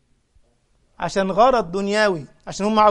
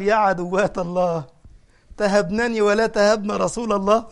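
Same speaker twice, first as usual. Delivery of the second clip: mock stern scolding; 4 dB louder than usual. Omar rebuking the Prophet's wives who fled, stern. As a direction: scold them like Omar would.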